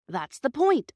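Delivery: agreeing engine driver. A narrator's reading. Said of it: "agreed the engine driver".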